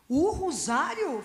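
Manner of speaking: slow, loud disbelieving "rosário?"; mock the client's shocked disbelief; incredulous echo. Client doubting the rosary advice, drawn-out incredulous echo.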